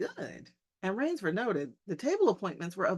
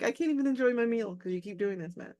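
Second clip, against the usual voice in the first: mock annoyed guest; 3 semitones higher, 3 dB louder than usual. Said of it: "He's like".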